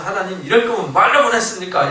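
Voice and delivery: mildly indignant complaint to God; imitated protest. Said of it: "이렇게 이제 항변하는".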